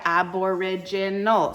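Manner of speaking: "aboriginal" slowly split into its syllables; slow, segmented "aboriginal" for the class. Shown as a demonstration. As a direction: sound out aboriginal piece by piece. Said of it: "this is how you split this word".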